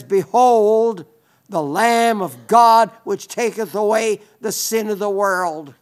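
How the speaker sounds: loud, ringing quoted proclamation; proclaiming. Retold or imitated. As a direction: declare it out loud, easing off toward the end. Quotes John pointing out Jesus.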